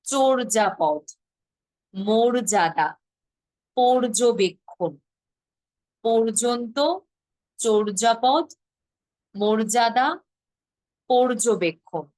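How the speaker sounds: চর্যাপদ, মর্যাদা, পর্যবেক্ষণ each with o for the first vowel, slow and clear; teacher's slow, clear word list; o-sound demo. Shown as a demonstration. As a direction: read পর্যন্ত, চর্যাপদ, মর্যাদা, পর্যবেক্ষণ slowly with o. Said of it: "ও এর মতোই করতে হবে".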